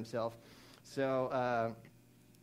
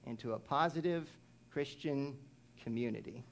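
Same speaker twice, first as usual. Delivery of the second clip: dictation pace. Shown as a demonstration. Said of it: "Here's your fill in the blank in your notes".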